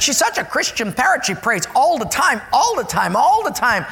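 put-on proud little old lady; lightly voiced church lady. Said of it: "she said".

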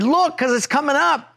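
the exit is coming, hurry her; panicky urging. Retold or imitated. Husband urging his wife before the exit passes, high-pitched panic.

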